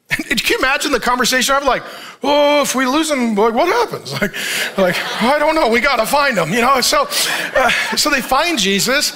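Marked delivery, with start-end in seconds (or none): 2.2-4.1 mildly frantic, higher-pitched fretting; frantic parents. Acted. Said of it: "So now they're frantic". 5.2-6.5 mock frantic, pitch raised at the start; frantic parents. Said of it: "So now they're frantic".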